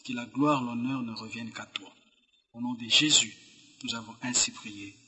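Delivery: unhurried prayer with long pauses; solemn prayer. Real, not acted. Guest leads the opening prayer for God's word, solemn prayer. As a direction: pray reverently, phrase by phrase.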